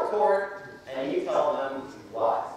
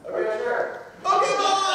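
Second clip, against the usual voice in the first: delighted yes; 14 semitones higher, 3 dB louder than usual. Retold or imitated. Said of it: "He picks up".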